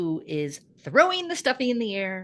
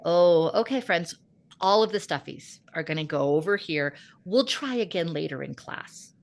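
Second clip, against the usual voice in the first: firm teacher call; 4 dB louder than usual. Retold or imitated. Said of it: "and I'm like".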